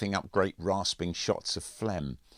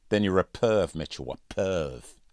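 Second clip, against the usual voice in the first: a hint of a schoolboy bully's sneer, the second perv drawn out slowly; lightly voiced sneering bully; 2 semitones higher, 4 dB louder than usual. Andrews mocking Mitchell, mild slow taunt. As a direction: lean on perv with mild contempt.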